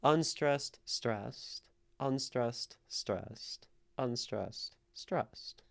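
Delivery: "unstressed, stressed" in evenly spaced beats; "unstressed, stressed" as a measured, falling pattern; rhythmic alternation. Shown as a demonstration. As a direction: tick out "unstressed, stressed" with a small gap after each. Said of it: "The stress of the syllables matter".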